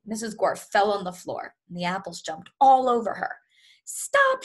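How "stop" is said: shrill high shout, much louder. Acted. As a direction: yell it high and furious at the apples. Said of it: "she shouted".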